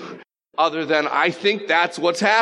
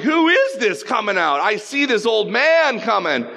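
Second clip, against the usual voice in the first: mock frightened; 7 semitones higher, 3 dB louder than usual. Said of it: "She screams".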